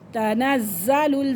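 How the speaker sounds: तनज़्ज़लुल with the ज़्ज़ pressed hard and doubled; tashdeed on the z. Shown as a demonstration. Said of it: "ज़ा को सख्ती के साथ इसलिए पढ़ा जा रहा है".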